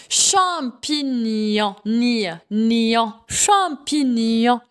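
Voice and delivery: "champignon" very slowly, syllable by syllable, GN as ny; slow model of "champignon" ending in a nasal "nyon". Shown as a demonstration. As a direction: stretch out "champignon" and isolate its "nion". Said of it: "ça se prononce ni".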